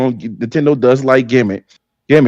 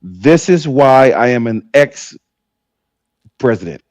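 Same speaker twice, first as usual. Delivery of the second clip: mock quote; much slower than usual. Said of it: "What he said is".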